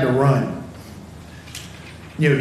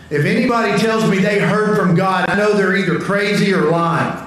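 raised and a bit higher, meant to be overheard; pretty loudly; 3 semitones higher than usual. Retold or imitated. Youth group kid walking out past the leader, pointedly loud. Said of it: "he said pretty loudly, making sure I heard it".

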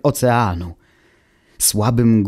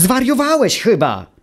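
much higher, louder outraged shout; furious yell; 12 semitones higher, 3 dB louder than usual. Acted. Automateusz yells at Wuch for advising suicide, a much higher furious shout. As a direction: scream it at the mad advice. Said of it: "wrzasnął".

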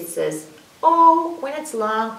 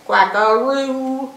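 long drawn-out, louder quackaroo; playful quack; 5 dB louder, slower than usual. Shown as a demonstration. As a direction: stretch the last syllable right out. Playful duck word.

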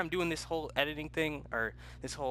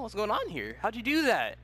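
voice crack; 7 semitones higher, 3 dB louder than usual. Real, not acted. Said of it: "I just have a voice crack".

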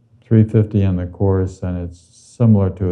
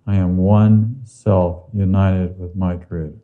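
affirmation. Shown as a demonstration. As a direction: say it for them to echo. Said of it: "then you say with me".

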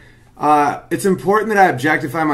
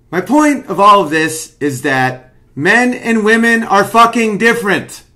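a near shout of conviction; emphatic; 6 semitones higher, 4 dB louder than usual. Real, not acted. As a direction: drive the point home hard. Comedian hammering his point.

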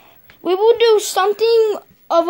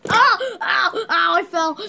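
tripping and falling; 5 semitones higher, slower than usual. Acted. Acted fall before "Cut!.

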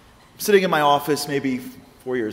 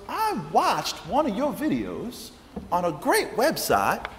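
slow, deliberate Southern voice; slow Southern lady; 5 semitones higher, much slower than usual. Retold or imitated. Caller names the website where she found him, slow Southern lady. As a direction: spell it out slowly like the caller.

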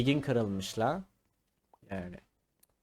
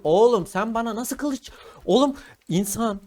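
1 mock sultan scolding; 4 semitones higher, 5 dB louder than usual.

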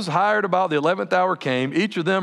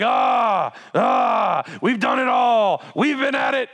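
mock boastful shout; 4 semitones higher, slower than usual. Preacher voicing boastful workers.

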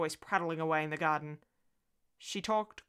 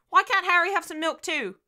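put-on high, loud little-girl demand; challenging child; 12 semitones higher, 9 dB louder than usual. A narrator's reading. Daughter challenging her mother over Harry's milk, child's challenge. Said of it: "she challenged me".

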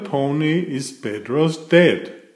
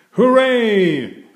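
put-on high, loud happy cheer from the kids; children cheering; 10 semitones higher, 5 dB louder than usual. A narrator's reading. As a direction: shout it out like a class of happy kids. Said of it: "cheer the children".

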